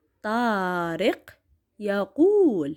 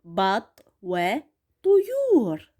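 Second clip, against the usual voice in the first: slow reading aloud; much slower than usual. Shown as a demonstration. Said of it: "راح اقروا وياي".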